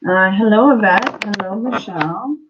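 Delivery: talking through a swollen mouth. Real, not acted. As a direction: speak around a puffy, numb cheek. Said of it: "my face is swollen".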